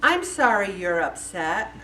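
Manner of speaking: slow, low non-apology; mock a grudging apology, drawn out and rising at the end; measured, mildly insincere sorry; backhanded apology. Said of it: "apologize like this".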